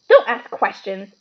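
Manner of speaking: snapped. A narrator's reading. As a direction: cut him off sharply. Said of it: "snapped his uncle".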